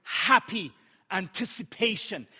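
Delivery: HAPPY leaned on and set apart; stress on HAPPY. Real, not acted. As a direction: punch the word happy. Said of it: "I stress on that word".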